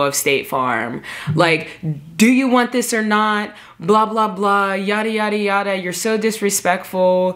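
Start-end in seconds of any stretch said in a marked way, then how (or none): 2.2-7.3 mild mock yell, pitched up; imitating an irate man's rant; retold screaming. Man berating her in State Farm, mock screaming. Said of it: "starts screaming at me".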